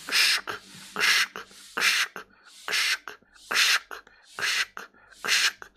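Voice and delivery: rasping shuffle sounds; shuffling feet noise. Retold or imitated. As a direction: imitate slow shuffling steps. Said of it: "так шаркая ногами".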